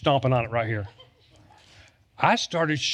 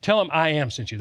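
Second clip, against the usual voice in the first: voice of God. Retold or imitated. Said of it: "And God said".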